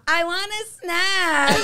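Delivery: slow, drawn-out mock-drunk English; tipsy snack whine. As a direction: drawl it like you've had a few drinks too many. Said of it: "quando eu começo a beber muito".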